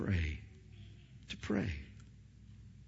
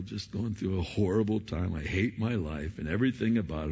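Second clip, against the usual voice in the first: pity party. Pretend. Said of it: "throw a pity party".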